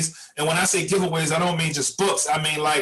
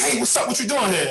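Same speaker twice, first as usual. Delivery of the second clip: a lightly voiced kid, higher and surprised; lightly raised kid greeting; excited kid; 6 semitones higher than usual. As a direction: call out like a kid spotting a friend. Kid surprises him at night.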